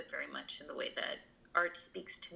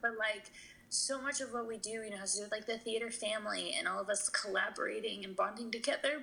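holding back real tears, voice raised in pitch; tearful; 5 semitones higher than usual. Real, not acted. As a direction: keep explaining through the tears. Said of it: "I'm sorry for crying".

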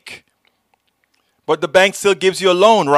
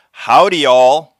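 mock Texan; 5 dB louder, slower than usual. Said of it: "Very Texan".

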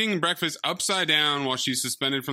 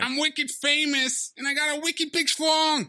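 put-on character voice; 11 semitones higher than usual. Film character boasting about being famous, high put-on voice. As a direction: deliver it high in a goofy put-on voice.

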